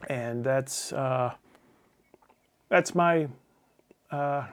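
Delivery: talking while chewing a nail; words round a nail in the mouth. Real, not acted. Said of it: "sorry, I was chewing on a nail".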